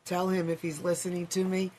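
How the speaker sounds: hoarse, losing her voice. Real, not acted. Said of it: "I don't know why I'm losing my voice".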